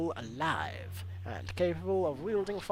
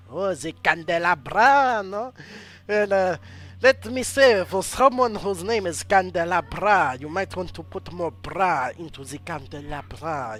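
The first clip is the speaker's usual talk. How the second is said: loud, higher mock critique; loud teasing; 4 semitones higher, 11 dB louder than usual. Real, not acted. Streamer roasting a hero's name, in loud teasing. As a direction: roast the name with big playful emphasis.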